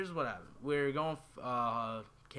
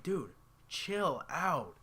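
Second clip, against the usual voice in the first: slow, higher-pitched mock telling-off; retold exasperation; 4 semitones higher, much slower than usual. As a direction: drag it out at a panicking kid brother. Retold telling panicking brother off.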